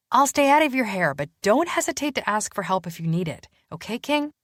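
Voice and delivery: a hint of playful Danny; retired detective offering help to Matthew; lightly voiced Danny.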